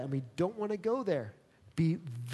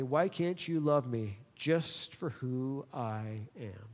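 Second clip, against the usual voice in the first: put-on hurt child's plea; 5 semitones lower, 6 dB quieter, slower than usual. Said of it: "they say".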